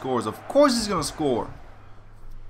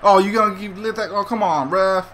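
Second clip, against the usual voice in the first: frustrated yell at the ref; 4 semitones higher, 5 dB louder than usual. Real, not acted. Yelling at the ref in-game.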